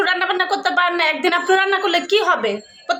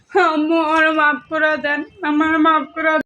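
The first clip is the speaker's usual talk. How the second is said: pleading for show; 2 semitones lower, slower than usual. Pretend. Staged apology at mother's feet.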